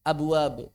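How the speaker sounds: "Abwab" with a light bounce on each b; easy, bouncing qalqalah on "Abwab". Shown as a demonstration. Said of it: "nggak dikolkolahin".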